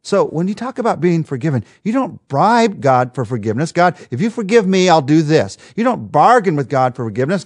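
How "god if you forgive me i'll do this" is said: mock bargaining sinner. Mock bribing God.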